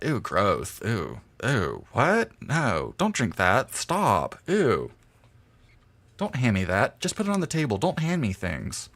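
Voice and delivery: mildly fussy, squeamish friend; lightly hammed-up disgusted complaining; imitating Mike. Streamer mimics drunk Mike refusing drinks, mildly fussy and squeamish. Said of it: "he would talk like that".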